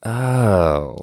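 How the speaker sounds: dawning realization. Retold or imitated. Host voicing disciples' realization.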